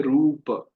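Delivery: "रूप" drawn out very slowly with the final a sounded, "roopa"; slow full ending. Shown as a demonstration. Teacher showing students the full Sanskrit form, very slow. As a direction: stretch "रूप" and voice its last vowel. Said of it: "हम बोलते हैं हलंत लगा के".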